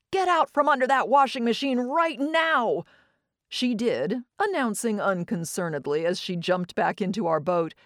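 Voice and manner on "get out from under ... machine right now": high, loud commanding yell; stern yell. Acted. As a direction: order the child out at once. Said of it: "yelled at her to".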